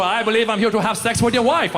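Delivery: hammed-up German accent. Comic playing a German visitor at your door, German accent. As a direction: put on a matter-of-fact German accent. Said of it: "A German might show up".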